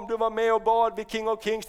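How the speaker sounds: ordinary talk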